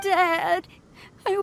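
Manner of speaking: choked-up sob on the word; tearful cry. Real, not acted. Child reunited with his lost father, crying. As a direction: call out through tears.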